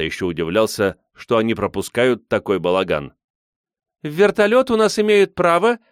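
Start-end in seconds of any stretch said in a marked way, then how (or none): 4.0-5.8 high, loud declaiming; high-pitched, sustained announcing call; ringing proclamation. A narrator's reading. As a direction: proclaim it like a rally leader. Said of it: "звонко провозглашает Катюша".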